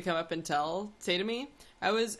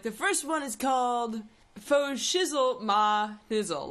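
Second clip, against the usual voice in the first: lightly voiced pushy seller, slowed; a hint of the salesman; street book seller; 2 semitones higher, 3 dB louder, slower than usual. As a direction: pitch his book title with pride. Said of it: "he was like".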